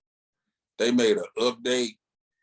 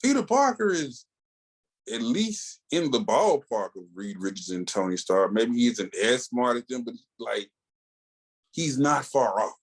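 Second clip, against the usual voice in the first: mock-pleading with fellow fans, pitched up; exasperated plea; 2 semitones higher than usual. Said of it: "it's like".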